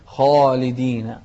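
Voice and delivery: خالدين with a thick, rounded "khaw"; heavy kha. Shown as a demonstration. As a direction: thicken the first syllable of خالدين. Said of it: "شوف التفخيم".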